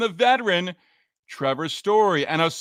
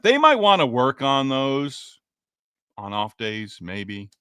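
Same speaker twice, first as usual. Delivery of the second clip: dry sarcasm; slower than usual. Real, not acted. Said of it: "That's sarcasm".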